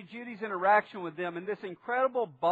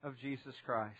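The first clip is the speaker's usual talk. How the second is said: public prayer; 4 semitones lower than usual. Real, not acted. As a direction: lead the congregation in prayer, measured and low. Leads a prayer before preaching.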